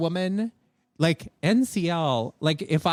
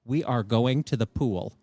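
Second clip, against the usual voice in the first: slow, measured deadpan mom; stone-faced mother; 5 semitones lower, slower than usual. Retold or imitated. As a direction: imitate a mother at her limit, slow and lower. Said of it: "stone-faced".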